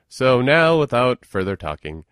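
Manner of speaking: bright, loud launch into the show; excited. Real, not acted. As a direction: kick it off with a big cheer.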